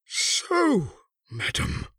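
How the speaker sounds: high, tense outburst falling away; drawn-up, high-strung address to a wife; high-strung agony. A narrator's reading. Sir Richard confronts his wife, high-strung and agonised. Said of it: "in the high-strung accents which, in crises of great mental agony".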